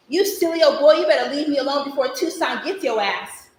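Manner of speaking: loud, sharp scolding that cools toward the end; sassy telling-off. Acted. Little girl warning a pestering boy, loud and sassy. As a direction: snap back at him hard, then warn him.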